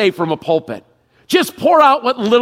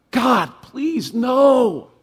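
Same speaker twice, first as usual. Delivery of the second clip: frantic plea, half a shout; pleading cry; 4 semitones higher, much slower than usual. Pretend. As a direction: beg God to take it back. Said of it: "your first thought is".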